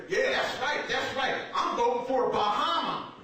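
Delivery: confidently ignorant barbershop-pundit impression; loud and wrong. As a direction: imitate a cocksure, clueless political pundit. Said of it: "Just loud and wrong".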